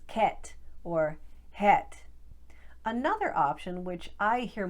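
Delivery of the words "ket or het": whispered Boston "ket" and "het", flat eh vowel; slow whisper of Boston eh words; Boston accent. Shown as a demonstration. Coach whispers the Boston eh version of cat and hat. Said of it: "turn it into a pure vowel eh sound".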